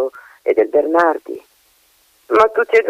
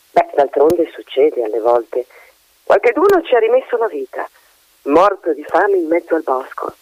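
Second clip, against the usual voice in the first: sinister magpie. Acted. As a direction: let the magpie hint darkly at lost children. Magpie hints about the wood.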